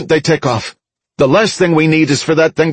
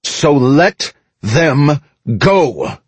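higher-pitched, emphatic public appeal; firm crowd address; 7 semitones higher than usual. A narrator's reading. Mickey persuades the crowd to release the ships, firm address. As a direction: press the crowd firmly to give way.

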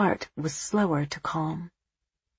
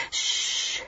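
hush; 7 dB quieter than usual. A narrator's reading. Hushing the boy.

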